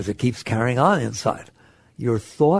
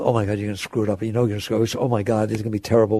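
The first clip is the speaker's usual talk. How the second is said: quick, low nagging in the head; lightly voiced inner critic, rushing on; 6 semitones lower, much faster than usual. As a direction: rattle off worried self-talk in a lower pitch. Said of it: "it's telling you".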